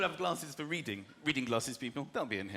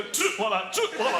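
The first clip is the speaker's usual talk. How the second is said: put-on vague Yorkshire accent; 5 dB louder than usual. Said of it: "vague Yorkshire accent".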